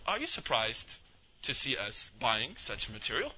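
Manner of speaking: slow, measured question; imitating a pointed, careful confrontation; deliberate questioning. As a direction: spell it out slowly for him. Brother solemnly confronts the seller.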